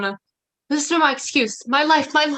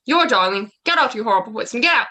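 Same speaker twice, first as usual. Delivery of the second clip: louder, scornful echo then angry order; scornful rejection; 3 dB louder than usual. Acted. Lysander to Hermia, mocking her word, then angry. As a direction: throw her word back in her face.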